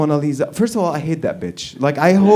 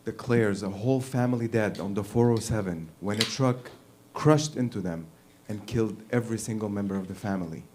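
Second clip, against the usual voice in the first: mock newscaster; 5 semitones lower, 8 dB quieter than usual. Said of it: "What the fuck is wrong with newscasters?".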